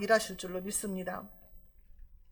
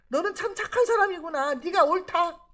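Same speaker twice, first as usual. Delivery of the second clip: higher-pitched mock concession; acted admission of defeat; 5 semitones higher than usual. Saul conceding to David that he lost, in a high-pitched acted admission. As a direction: concede it as an overcome king would. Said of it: "그 말이에요".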